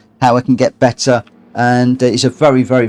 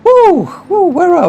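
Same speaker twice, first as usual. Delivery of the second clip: whooping; 4 dB louder than usual. Real, not acted. Whooping during the race.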